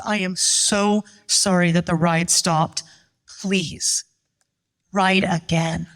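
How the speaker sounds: slow, mildly apologetic plea. Retold or imitated. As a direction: imitate a very sorry staffer, spacing the words out. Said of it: "he is so apologetic".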